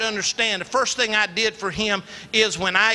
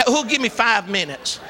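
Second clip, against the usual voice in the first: auctioneer. Pretend. Auctions off extra minutes.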